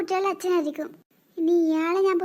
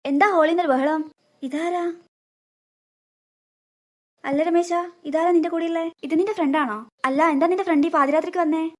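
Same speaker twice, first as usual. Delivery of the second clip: put-on fussy old mother; 5 semitones lower than usual. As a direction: nag like a worried mother. Mother character voice.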